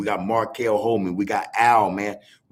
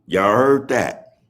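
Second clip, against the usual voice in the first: drawn out question; 5 dB louder, much slower than usual. Real, not acted. Repeats to stress the comment.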